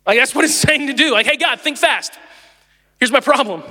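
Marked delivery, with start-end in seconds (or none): 1.3-3.6 aggressive toss. Shown as a demonstration. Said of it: "that's how aggressive you can be".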